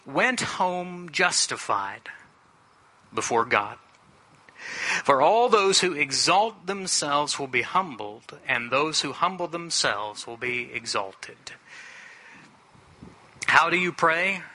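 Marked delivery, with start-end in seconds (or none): 0.0-11.4 measured, solemn reading from scripture. Real, not acted. Preacher reads the parable's close to the congregation, solemn scripture reading. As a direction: read the verse out deliberately to listeners.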